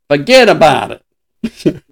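put-on slow, drawn-out New York mobster accent; slow tough-guy New York mobster accent. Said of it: "You gotta learn how to talk like a mobster".

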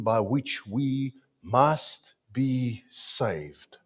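slow, declaiming read; scripture reading. Acted. Preacher reading First Peter to the church, slow and declaiming. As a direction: read it out with weight.

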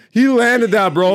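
high, loud and slow amazed drawl; stoked skater drawl. Real, not acted. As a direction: stretch it out in disbelief. Replaying the landed trick.

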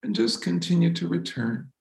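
calm, unhurried meditation voice with long pauses; soothing, spacious delivery; guided meditation. Real, not acted. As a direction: gently guide them back to the breath. Leads a breathing meditation.

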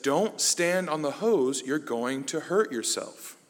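slow, deliberate motherly warning; patient mock-mom voice, drawn out. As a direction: spell it out slowly for a toddler. Mom warning child slowly.

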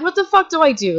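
high-pitched helpless panic; retold freak-out. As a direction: act out being at a total loss. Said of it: "freaking out".

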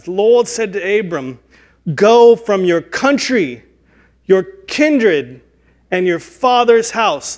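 loud, high, slow proclamation in a put-on accent; the Lord. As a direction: declaim it grandly, phrase by phrase. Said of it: "that's how the Lord speaks in Genesis".

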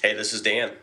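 sick, croaky throat. Real, not acted. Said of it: "Dan, you sound a little froggy".

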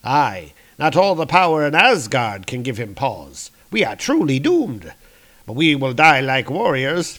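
lightly theatrical heroic voice; a hint of grand fatalism; doom-laden warrior. Warrior accepting doom before his comrades, lightly theatrical.

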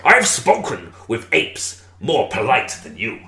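slow pirate voice; slow, menacing pirate taunt. Acted. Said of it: "'cause I did the pirate voice".

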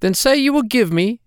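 a droll little man, sly and teasing; hobgoblin voice. Acted. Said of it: "said the little dwarf".

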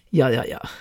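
put-on playful Indian accent, dropping low on the yeahs; mock Indian accent for fun. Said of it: "I love talking like that".

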